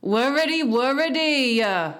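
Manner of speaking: high, loud fretful protest; querulous complaint, pitched right up; peevish. A narrator's reading. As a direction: wail at being pestered. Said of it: "he only said as before".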